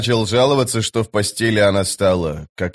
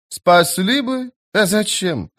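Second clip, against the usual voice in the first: scoffing retort; 7 semitones higher than usual. A narrator's reading. Sentry rebuffs Bennet's complaint, scoffing. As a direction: throw it back much higher, scoffing.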